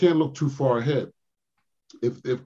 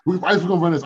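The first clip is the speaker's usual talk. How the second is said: raised coach call, a bit louder; coach's call; 6 semitones higher, 4 dB louder, much faster than usual. Retold or imitated. Coach telling Ice in the timeout, raised call. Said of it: "And then Stan goes".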